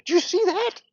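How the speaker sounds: high, loud amazed cry; amazed shout. Retold or imitated. Seeing the dinosaur pop out, amazed high yell. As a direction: yelp it out in astonishment.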